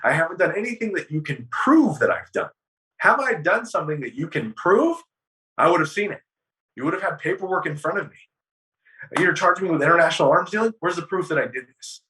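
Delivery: reenacting an exasperated challenge to the court; indignant protest. Retold courtroom protest against the charges.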